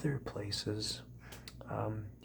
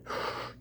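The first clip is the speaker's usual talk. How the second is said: demo gasp; 5 dB quieter than usual. Shown as a demonstration. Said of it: "You breathe through your forehead".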